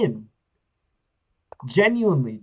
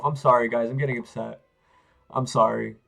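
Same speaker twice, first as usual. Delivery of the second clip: apologetic; 4 semitones lower, faster than usual. Real, not acted. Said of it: "I'm getting upset at myself".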